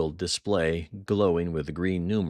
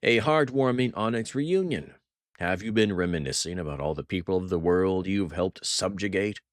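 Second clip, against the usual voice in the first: mock warmth; 3 semitones higher than usual. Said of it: "his voice dripping with mock warmth".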